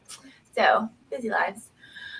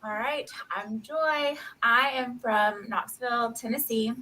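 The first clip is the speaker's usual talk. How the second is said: country accent. Real, not acted. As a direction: let the Tennessee accent out. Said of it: "My country accent comes out".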